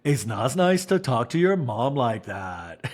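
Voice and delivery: slow, prim mock reprimand; prissy scold. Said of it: "And Lisa says".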